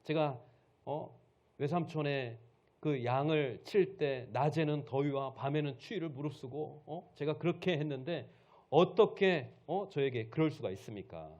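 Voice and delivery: mildly heated, insistent protest; aggrieved scolding. Acted. Jacob recalls his hard service to his uncle, aggrieved scolding. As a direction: build to a loud indignant challenge. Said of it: "장인어른을 막 큰 소리 치면서 막 책망을 하는 거예요".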